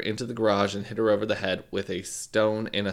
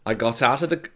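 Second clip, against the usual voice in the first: put-on British accent. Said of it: "why is my British accent not working".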